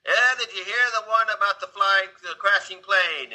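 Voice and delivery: high, excited pub joker launching a joke; jolly high-pitched call to the crowd; rowdy joke-teller. Retold or imitated.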